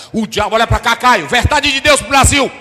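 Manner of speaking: full-force preaching. Acted. Preacher warning the church, shouting at full force. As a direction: preach it hard, building to a shout.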